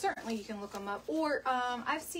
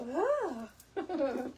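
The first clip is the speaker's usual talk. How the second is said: Tanya's excited ooh; 5 semitones higher, 4 dB louder than usual. Retold or imitated. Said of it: "I love it when she says that".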